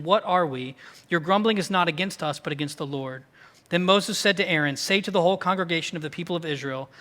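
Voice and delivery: steady Bible reading, moving along briskly; scripture reading. A narrator's reading. Pastor runs through the longest section of Exodus, scripture reading. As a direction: read the passage straight through to a congregation.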